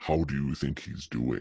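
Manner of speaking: deep, dark, hushed, male-sounding voice. Retelling voices heard from beings in a bed, speaker quotes one in deep, dark male voice. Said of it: "the deep, dark voice that sounds male in nature".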